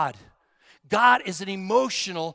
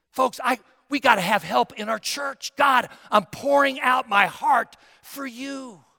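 gutsy prayer; 3 semitones higher, 4 dB louder than usual. Shown as a demonstration. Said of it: "This is a gutsy prayer".

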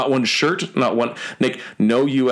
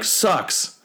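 put-on kids' jeer; 8 semitones higher than usual. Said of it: "a bunch of kids behind me".

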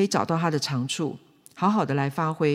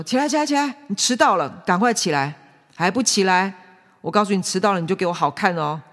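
urgent, louder wake-up nagging; nagging father; 2 semitones higher, 4 dB louder than usual. Acted. Father rousing his child from bed, urgent nagging. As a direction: hurry a sleeping child out of bed, threatening. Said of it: "那他怎么叫呢？".

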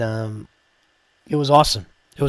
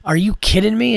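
incredulous; 8 semitones higher than usual. Retold or imitated. Retold reaction to being recognized.

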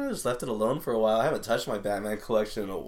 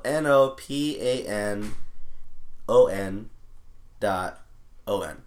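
slow spelling; slower than usual. Real, not acted. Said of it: "trying to type it as I'm saying it".

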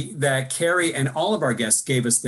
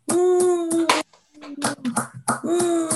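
excited cheer; 14 semitones higher than usual. Real, not acted. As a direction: cheer it out like a crowd. Cheering for Zoom claps.

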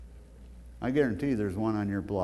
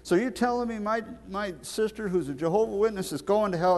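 imitating the inmate; 8 semitones higher than usual. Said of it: "And he said".

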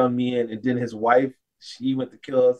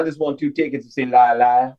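retold country accent, lightly put on; a hint of country twang. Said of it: "purchase the tickets in a country accent".

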